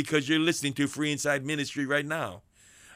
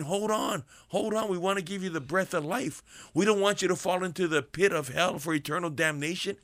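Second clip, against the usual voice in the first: urgent plea; 4 semitones higher than usual. Acted. Preacher calling to lost listener.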